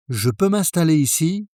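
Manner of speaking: Je peux m'installer ici with a light rise on peux; polite French question; French pronunciation. Shown as a demonstration. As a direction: ask Je peux m'installer ici gently, rising at the end. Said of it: "If you read it like English".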